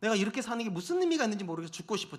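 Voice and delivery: softly voiced, worn-out wife; subdued, defeated murmur; weary despair. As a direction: quietly retell a spouse's despair. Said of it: "제 아내가 굉장히 많이 힘들었어요".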